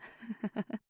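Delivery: short, breathy chuckle; a little laugh before confessing; nervous laugh. Acted.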